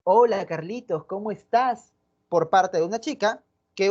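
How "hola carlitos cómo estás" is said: a glad, interested hello to Carlitos; friendly greeting. Shown as a demonstration. Teacher demonstrating how one girl greets Carlitos kindly. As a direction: greet him like you're happy to see him. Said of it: "pero no es lo mismo un".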